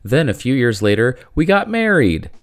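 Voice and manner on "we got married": mock excited punchline. Joke punchline.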